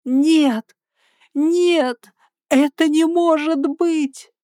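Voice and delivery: громкий, высокий, медленный крик отчаяния; кричи «нет», не веря глазам; отчаянный крик. A narrator's reading. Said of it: "Я закричала". (героиня видит погибшего опекуна, кричит в отчаянии)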